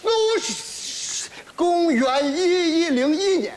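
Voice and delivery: slurred as if mouth full of socks; mumbled. Acted. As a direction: mumble through the words. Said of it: "你嘴里有袜子是怎么着啊".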